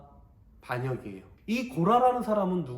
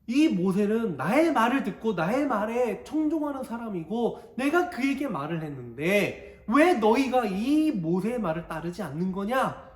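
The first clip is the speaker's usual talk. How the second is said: voice of God; 5 semitones higher, 4 dB louder than usual. Acted. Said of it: "하나님께서 이야기하시는 거예요".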